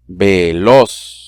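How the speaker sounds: "Veloz" spoken slowly, syllable by syllable; split into syllables. Shown as a demonstration. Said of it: "vamos a separarlas en sílaba".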